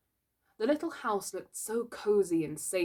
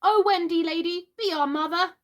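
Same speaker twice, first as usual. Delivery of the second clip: high, louder pleading cry; cried out; 11 semitones higher, 7 dB louder than usual. Acted. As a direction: beg on your knees.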